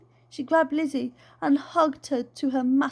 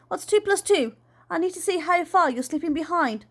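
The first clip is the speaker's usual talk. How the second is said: bossy auntie; 6 semitones higher than usual. Acted. Voices the aunt.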